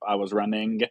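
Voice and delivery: lightly imitated film character, G sounded in "running"; light impression with a hard final G; Forrest Gump. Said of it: "like Tom Hanks does as Forrest Gump".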